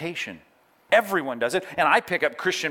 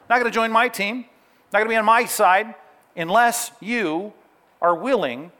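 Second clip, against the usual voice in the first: emphatic preaching; 7 semitones higher, 4 dB louder than usual. Real, not acted. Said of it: "preaching emphatically".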